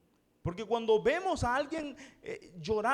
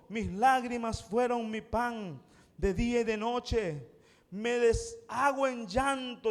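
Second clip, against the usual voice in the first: intense lament; slower than usual. Retold or imitated. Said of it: "revela la intensidad de su dolor".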